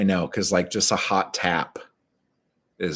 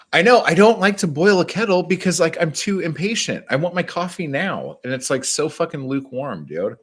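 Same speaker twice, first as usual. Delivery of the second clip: whiny high voice; 10 semitones higher, 6 dB louder than usual. Acted. Whining about kettle, high loud.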